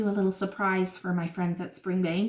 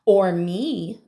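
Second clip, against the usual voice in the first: a touch of boastful butterfly; a hint of bragging; mild brag; 2 semitones lower, 3 dB louder than usual. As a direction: say it like a light little show-off. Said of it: "bragged the butterfly".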